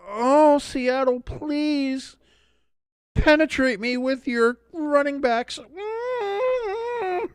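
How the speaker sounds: high breathy falsetto plea, drawn out; over-the-top squealing come-on; mock seductive falsetto. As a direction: swoon at the Seahawks in a hammed-up high voice. Mock plea to Seattle team.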